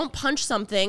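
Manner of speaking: plain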